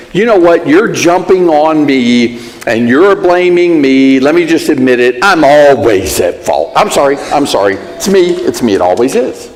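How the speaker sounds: mildly sarcastic, fed-up martyr; bitter self-blame. Retold or imitated. Spouse fed up with the blaming, a touch of sarcasm. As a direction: throw the blame back, half-hearted. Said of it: "that apology just kinda says".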